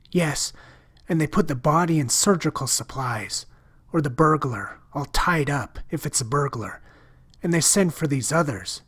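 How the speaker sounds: a lightly voiced girl confiding a secret in dread; lightly voiced frightened girl. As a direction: lift the voice slightly for the scared shopgirl. Narrator voices Ella.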